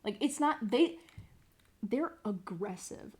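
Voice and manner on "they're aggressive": slow hushed whisper; a secretive slow whisper. Real, not acted. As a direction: lean in and whisper it. Conspiratorial aside about students.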